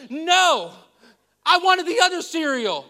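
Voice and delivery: high, loud mock sob of a child; whiny crying child. A six-year-old daughter protesting to her parents, imitated crying whine. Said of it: "And she's like".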